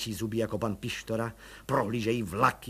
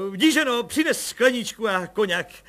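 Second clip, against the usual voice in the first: higher, louder joyful telling; excited clamour; 11 semitones higher, 8 dB louder than usual. A narrator's reading. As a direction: tell her the news in delight. Colonel orders drinks joyfully.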